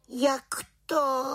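dotčená otázka, výš; uraženě se ohradit; dotčeně. A narrator's reading. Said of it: "Dotčeně se zeptala". (malá čarodějnice se dotčeně brání)

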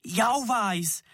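high yelp of pain; cry of pain. A narrator's reading. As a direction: yelp as your toe hits the log. Kicked a stuck log.

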